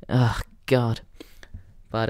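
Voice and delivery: ordinary talk, nothing marked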